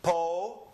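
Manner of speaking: Po with a pure Spanish O; syllable demonstration. Shown as a demonstration. Teacher breaks popular into syllables, Po said alone with pure O. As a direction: isolate Po as its own syllable. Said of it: "this is an O".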